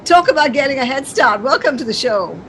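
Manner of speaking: upbeat radio presenter opening, punchy start; show host introduction. Real, not acted. Host welcoming a young indie singer to the show, presenter's introduction. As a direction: kick off the show and present the guest.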